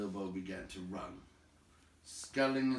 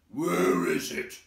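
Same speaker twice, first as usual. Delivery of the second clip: far louder, slow goblin shout; goblin cry; 14 dB louder, slower than usual. A narrator's reading. Goblins hunting the vanished hobbit, shouting. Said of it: "they cried".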